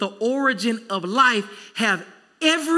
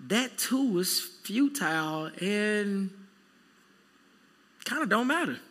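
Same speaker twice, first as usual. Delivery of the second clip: weighty Solomon; 4 semitones higher than usual. Retold or imitated. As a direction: draw it out like a weary old king. Voicing Solomon's confession.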